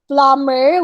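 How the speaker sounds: plumber said as "plummer"; silent B. Shown as a demonstration. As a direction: say plumber with no b sound. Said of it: "we don't say the letter B".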